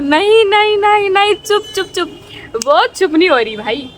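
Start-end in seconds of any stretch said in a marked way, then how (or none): 0.0-2.1 retold frantic no no, shut up; shouting no. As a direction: yell at her to stop, high and urgent. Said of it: "चिल्ला रही हूँ".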